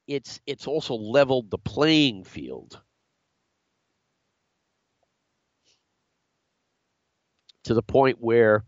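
talking through a held sneeze; fighting off a sneeze; holding back a sneeze. Real, not acted. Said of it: "I'm gonna try not to sneeze here".

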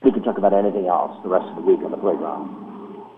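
breaking up on a bad line; over the phone. Real, not acted. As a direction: remote line cutting out. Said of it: "Sorry, you're cutting out there".

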